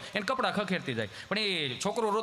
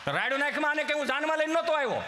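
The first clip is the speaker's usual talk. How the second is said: irritated husband retort; 7 semitones higher than usual. Retold or imitated. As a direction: fire back at the wife.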